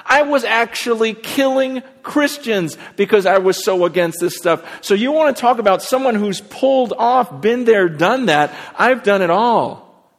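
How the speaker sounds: fervent boast. Retold or imitated. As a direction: drive home the boast and lean on the last words. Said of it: "He goes".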